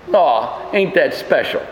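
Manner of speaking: low, sarcastic mock sympathy: "Aw, ain't that special?". Preacher mocking the liberals' edit, sarcastic coo. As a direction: drip mock sweetness over the words.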